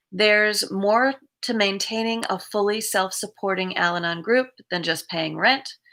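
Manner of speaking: measured read-aloud of a reflection. Acted. Streamer reads the day's recovery reflection to viewers, measured reading. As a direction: read it out evenly, pausing between sentences.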